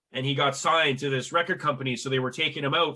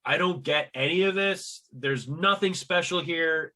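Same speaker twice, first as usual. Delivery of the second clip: inner thought; 2 semitones higher than usual. Retold or imitated. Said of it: "in my head".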